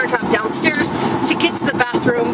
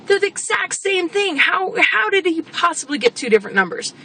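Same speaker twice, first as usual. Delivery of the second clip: baffled question; 6 semitones higher than usual. Retold or imitated. Baffled at two measurements.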